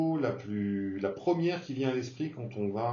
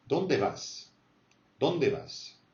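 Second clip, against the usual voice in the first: Dónde lifted high, then falling on vas; high pitch on Dónde; 2 semitones higher, much slower than usual. Shown as a demonstration. Teacher modelling "where are you going", Dónde pitched up. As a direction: push Dónde up into the highs. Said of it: "on monte dans les aigus".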